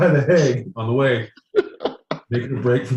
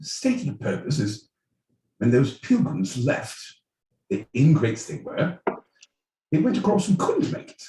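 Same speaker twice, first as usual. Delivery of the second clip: put-on British accent. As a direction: answer like a proper English gent. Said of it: "British, my boy Pete".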